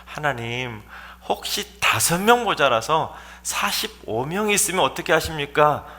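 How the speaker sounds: softened, tentative question to God; meek, backing down. Acted. Abraham timidly bargaining with God, meek and subdued. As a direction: ask humbly with tail tucked. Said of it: "갑자기 꼬리를 확 내리고는".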